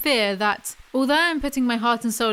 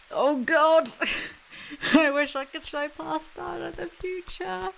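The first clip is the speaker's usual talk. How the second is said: laughing; 7 semitones higher than usual. Real, not acted. Laughing at her own slip.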